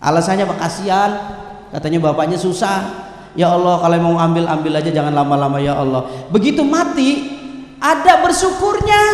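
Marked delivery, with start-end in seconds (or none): 3.4-6.1 low mock prayer for release; child's resigned prayer. Child asking God to take father soon, low resigned prayer. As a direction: drop the voice into a resigned plea. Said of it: "Tuh anak tuh".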